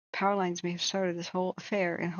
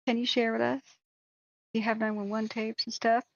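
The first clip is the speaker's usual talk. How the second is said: higher, fishing for drama; prying reporter; 4 semitones higher than usual. Retold or imitated. Producer pressing him for nine one one tapes, mock sweet. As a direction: mimic a pushy producer's sweet ask. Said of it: "They're like".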